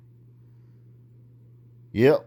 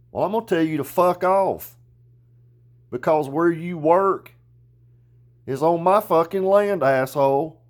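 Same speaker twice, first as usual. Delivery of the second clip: angry telling-off; 6 semitones higher, 3 dB louder than usual. Real, not acted. Telling off the complaining guy.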